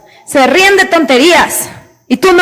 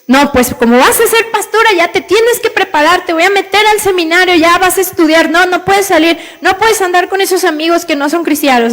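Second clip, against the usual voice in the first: strict father; 4 semitones higher than usual. Retold or imitated. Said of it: "Y entonces".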